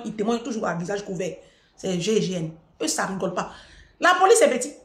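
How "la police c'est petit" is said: scoffing. Retold or imitated. Mocking the police option.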